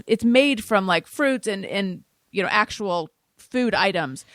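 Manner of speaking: podcast ad read for vitamins. Acted. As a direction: read the sponsor spot like a host ad. Sponsor ad read.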